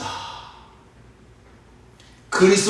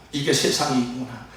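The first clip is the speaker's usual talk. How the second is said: softer, subdued acted lament; heartbroken Jesus; 3 semitones lower, 6 dB quieter than usual. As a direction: let it sink with quiet hurt. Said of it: "너무나 마음이 아프셨습니다". (마음 아픈 듯 나직하게)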